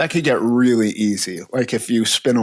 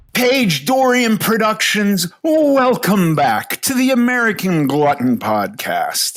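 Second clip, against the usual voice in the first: very high game-show announcer voice; 10 semitones higher, 3 dB louder than usual. Opening the podcast as an audition for The Price Is Right announcer voice. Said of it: "That was my audition to be the voice on The Price is Right".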